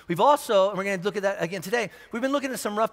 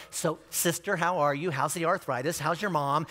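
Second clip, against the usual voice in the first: softer, gentle small talk of a mild pastor at the door; soft-spoken preacher; 4 semitones lower, 4 dB quieter than usual. Retold or imitated. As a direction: lightly imitate a meek preacher greeting the flock. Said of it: "that soft-spoken preacher".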